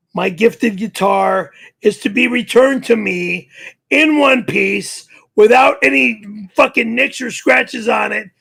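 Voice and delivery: ordinary talk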